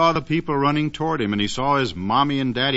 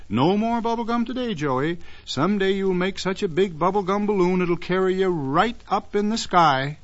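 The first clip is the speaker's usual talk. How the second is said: mommy scolding; 6 semitones higher than usual. Acted. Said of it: "She said".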